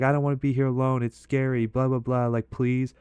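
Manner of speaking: imitating the drunk date begging him to come in; begging drunk girl. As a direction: rush out a whiny plea not to be left alone. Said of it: "begging me to come in".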